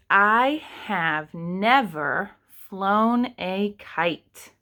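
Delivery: each word said slowly for writing; slow dictation. Shown as a demonstration. Teacher to kindergarteners, slow dictation. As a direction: dictate the sentence slowly to the class. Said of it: "the sentence that I'm going to write is".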